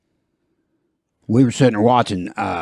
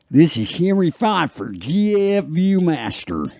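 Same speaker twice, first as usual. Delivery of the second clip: lightly voiced ad read, a touch higher; Henry Fonda impression; 7 semitones higher than usual. Host does a celebrity ad voice, lightly higher. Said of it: "I gotta say the guy's name".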